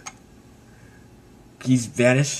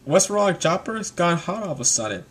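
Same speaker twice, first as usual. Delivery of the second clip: higher, softer questioning voice; puzzled Frankie; 4 semitones higher, 4 dB quieter than usual. Retold or imitated. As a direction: ask with mild concern. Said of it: "And Frankie's like".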